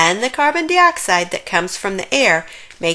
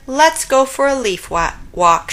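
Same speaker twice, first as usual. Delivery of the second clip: mild shout; 5 semitones higher, 4 dB louder than usual. Acted. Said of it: "shouted Buddy".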